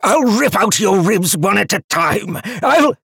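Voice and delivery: very high, loud furious threat; growling chained demon. A narrator's reading. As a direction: roar it until cut off. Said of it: "growling and pulling against his restraints".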